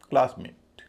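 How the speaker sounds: क्लास punched, मेट lighter; stress on क्लास. Shown as a demonstration. Teacher repeating the noun example, stress on क्लास. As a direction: hit क्लास, let मेट drop back. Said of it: "क्लास पे जितना जोर है".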